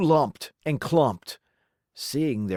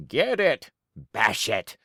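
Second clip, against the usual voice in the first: fading mob cry; 7 semitones lower than usual. A narrator's reading. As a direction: shout then growl it away. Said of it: "cried the horde".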